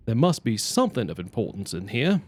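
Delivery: put-on lightly British accent, rising at the end; accidentally British character voice. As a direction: attempt the character, sliding into British. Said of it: "I'm getting British now".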